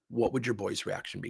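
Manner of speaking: soft, calming question; retold calm, softened voice. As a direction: ask gently to settle him down. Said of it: "Tone difference".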